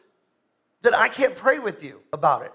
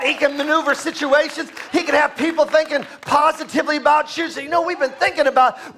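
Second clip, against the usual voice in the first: higher, insistent pulpit delivery; raised-voice preaching; 5 semitones higher, faster than usual. Acted. Preacher assuring the congregation God can move hearts, raised preaching. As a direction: preach it up to the crowd.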